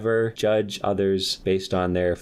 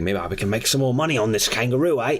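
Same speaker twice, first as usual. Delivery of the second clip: scheming guy; 4 semitones higher than usual. Acted. Man voiced in kangaroo story.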